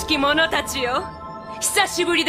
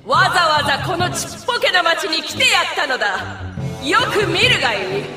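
royal proclamation. Acted. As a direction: proclaim it grandly, building to a shout. Princess proclaims to frightened townspeople. (高らかな宣言)

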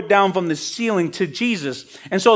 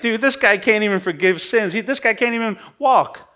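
mock-arrogant dismissal, pitched up; arrogant scoffing; 4 semitones higher than usual. Pharisees sneering at the failed healing, mock arrogant. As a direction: lightly play a scornful sceptic writing someone off. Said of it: "arrogantly pronounced".

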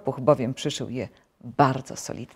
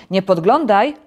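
loud, higher command; warning call; 4 semitones higher, 9 dB louder than usual. A narrator's reading. Toad orders Frog not to peek.

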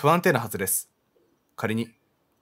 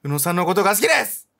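a streamer's playful, louder take on the heroine's line; hammed-up confession; teasing stand-in confession; mock confession; 5 semitones higher, 4 dB louder than usual. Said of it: "告白しようよ".

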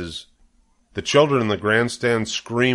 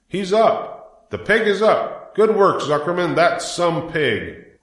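much higher excited cheering; crowd cheering; 8 semitones higher, slower than usual. A narrator's reading. Fair crowd cheering Zuckerman and his pig, excited. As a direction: cheer him on from the stands.

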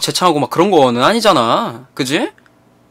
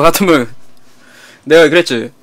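plain reading voice

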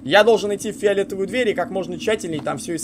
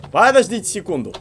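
louder, urgent call out; 3 semitones higher, 6 dB louder than usual. Real, not acted. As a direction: raise your voice to stop them. Panicking while lost in level.

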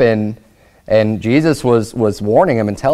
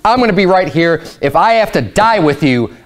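vociferous insistence; 3 semitones higher than usual. Retold or imitated. Peter pledging to stay beside Jesus, vociferous insistence. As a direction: protest your loyalty, pitch jumping up at first. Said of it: "Peter very vociferously is saying".

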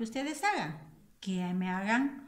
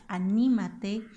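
"Anímate" drawn out, ní louder; stressed syllable; 5 dB louder, slower than usual. Shown as a demonstration. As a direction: lean on the ní of "Anímate". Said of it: "es una palabra esdrújula".

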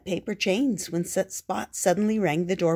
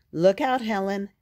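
warning shout; 3 semitones higher, 7 dB louder than usual. A narrator's reading. Warning from a speeding sled.

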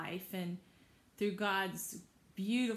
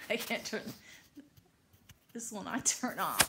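exasperated; 6 dB louder than usual. Real, not acted. Device won't turn off.

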